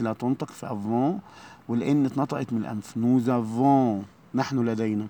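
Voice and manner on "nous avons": nous avons with a z sound before avons, very slow; slow French liaison nous-z-avons. Shown as a demonstration. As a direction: join nous to avons with a clear z. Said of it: "هننطقها زد".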